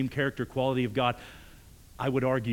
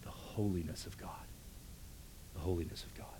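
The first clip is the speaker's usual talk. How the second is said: whispered softly, much softer, barely voiced; 5 semitones lower, 12 dB quieter than usual. Real, not acted. Preacher hushes congregation with God's holiness, whispered. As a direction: breathe the words like a hushed secret.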